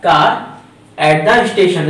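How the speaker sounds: reads the English sentence out very slowly; slow dictation read. Shown as a demonstration. Teacher rereading Rohan's sentence very slowly for the class. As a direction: drag out each word for the learners. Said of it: "Rohan ने कहा".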